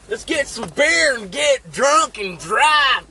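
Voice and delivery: high, loud, slow party yell; drunken rally cry; rowdy shout. Retold or imitated. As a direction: holler it like drunk buddies. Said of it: "we were like".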